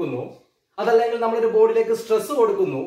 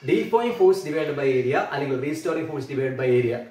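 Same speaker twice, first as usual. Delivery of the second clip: slow and lower, word by word; dictating while writing; 6 semitones lower, much slower than usual. Shown as a demonstration. Teacher writing the formula, slow lower dictation. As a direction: read the formula out as you write it.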